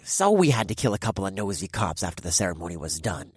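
scoffing. Acted. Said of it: "the first voice scoffed".

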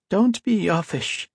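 high, slow, thin warning voice; a reedy man warning, drawn out. A narrator's reading. White-haired man warns the archivist, high and reedy. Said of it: "a reedy voice warned".

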